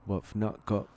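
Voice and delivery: a lightly put-on British accent, half-hearted; hammy British trader accent, barely done; bad British accent. Greeting American visitors, in a bad British accent. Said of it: "That's my shit British accent".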